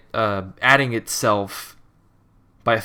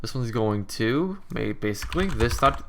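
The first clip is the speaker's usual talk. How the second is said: talking through hiccups; hiccuping; 4 dB quieter than usual. Real, not acted. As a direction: hiccups breaking the words. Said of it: "I'm also hiccuping".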